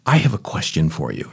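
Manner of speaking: a touch of a deep-voiced TV preacher; Robert Schuller. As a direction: lightly mimic a TV evangelist's deep tone. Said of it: "he had this, he had this deep, wonderful voice".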